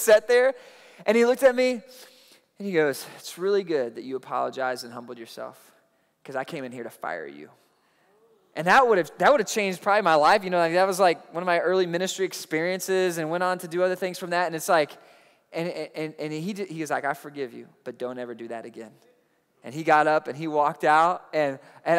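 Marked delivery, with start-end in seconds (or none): 3.2-7.5 much lower, soft, grave words; quiet verdict. Retold or imitated. Pastor telling the youth leader he nearly fired him, quiet and grave. 17.0-18.9 low, soft forgiving with a stern edge; quiet forgiveness. Retold or imitated. Pastor forgiving the young man, soft and low.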